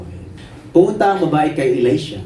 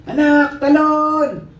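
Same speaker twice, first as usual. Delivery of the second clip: high, urgent shout; acted desperate command; urging father; 12 semitones higher, much slower than usual. Father shouting to child to jump, urgent calling.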